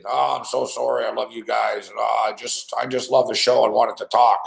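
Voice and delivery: lightly voiced drunk, low mumbled apology; wasted caller. Drunk caller apologizing to Yang afterwards, mock wasted. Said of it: "all wasted".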